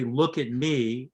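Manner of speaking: slow, calm "Look at me"; soothing chairside instruction, slowly; calm command. Shown as a demonstration. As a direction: settle the patient's attention gently. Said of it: "then you say".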